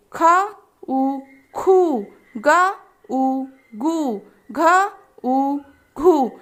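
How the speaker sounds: very slow, each sound drawn out; teacher drilling syllables slowly. Shown as a demonstration. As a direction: blend letter and vowel slowly for kids. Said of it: "बच्चों को सभी वर्णों का उच्चारण करवाएं".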